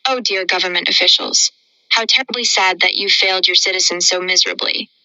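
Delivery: understated mock concern, rather quick. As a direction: feign sympathy, lightly and briskly. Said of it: "voice dripping with mock concern".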